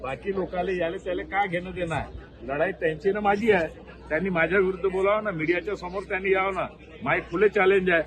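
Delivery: worked up and combative; defiant challenge. Real, not acted. Defiant open challenge to his opponent.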